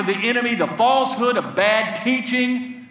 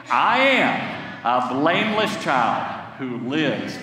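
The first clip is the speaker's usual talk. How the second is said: slow confession; 5 semitones lower, slower than usual. Shown as a demonstration. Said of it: "Say it again".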